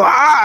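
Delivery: a short mock scream, not really high; a quick retold "Ah" scream; low-pitched scream. Retelling his Clueless scene, a short mock scream. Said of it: "I go".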